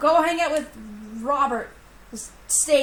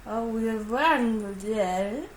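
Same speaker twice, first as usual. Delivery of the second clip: dazed; 4 semitones lower, 4 dB quieter, much slower than usual. Acted. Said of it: "I'm, like, staring into space".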